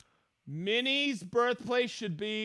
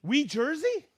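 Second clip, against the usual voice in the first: Wee, Jersey? with a rising question at the end; puzzled question; 5 semitones higher than usual. Real, not acted. Host puzzling over a viewer's place name, doubtful rise. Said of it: "second take, puzzled".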